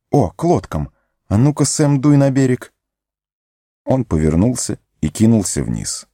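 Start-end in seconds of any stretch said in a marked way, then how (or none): 0.1-0.9 bright little exclamation on лодкам; sudden realization. Acted. Sam suddenly realizing Frodo went to the boats, exclaiming. 1.3-2.7 higher, eager self-command; urging himself on. Acted. Sam ordering himself down to the shore, higher and urgent.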